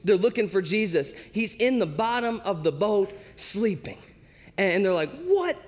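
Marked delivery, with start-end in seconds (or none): 5.2-5.5 high-pitched, incredulous outburst; hammed-up frantic protest, stretching the question; mock screaming. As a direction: act out panicked disbelief, voice way up. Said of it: "They're screaming".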